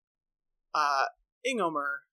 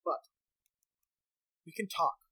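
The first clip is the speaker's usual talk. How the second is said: a hint of a cautious village elder, a bit higher; lightly voiced elder Ingomer; 3 semitones higher than usual. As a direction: sound like a wary elder doubting the warning.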